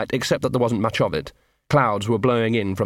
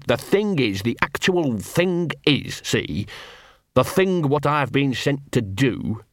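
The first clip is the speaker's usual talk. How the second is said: lightly voiced scruffy street dog, chummy; a small mongrel wheedling a friend; Gaspode the dog; 3 semitones higher, slower than usual. Scruffy dog to hidden wolf, lightly voiced.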